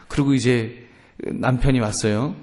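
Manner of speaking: usual speaking voice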